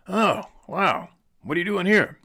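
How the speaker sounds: put-on high, curious old driver asking; cab driver's voice. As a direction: pitch up into the cabbie's friendly question. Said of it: "an older black fella was driving the taxi cab".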